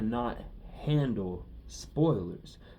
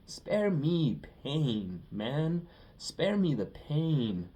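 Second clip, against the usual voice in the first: mock pleading; 4 semitones higher, much slower than usual. Pleading continues, drawn out.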